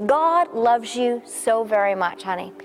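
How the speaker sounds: slow, tender reassurance. Real, not acted. Pastor to hurting woman, slow and tender. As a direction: say it like comforting a friend.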